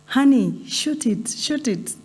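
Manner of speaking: high-pitched retold call, not full volume; retold shout. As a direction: imitate a husband calling out to his wife. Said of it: "he shouted to the wife".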